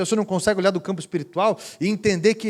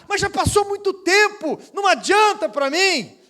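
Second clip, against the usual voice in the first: high woman's voice; 12 semitones higher, 4 dB louder than usual. Retold or imitated.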